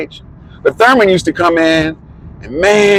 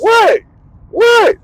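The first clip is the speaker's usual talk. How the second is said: imitating Thurman. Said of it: "He's like".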